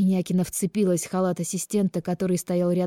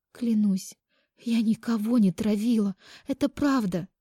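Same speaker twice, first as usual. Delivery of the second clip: higher-pitched, pleading protest; earnest denial; 5 semitones higher than usual. A narrator's reading. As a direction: swear your innocence in a raised pitch. Accused woman desperately denies poisoning. (искренне оправдываясь)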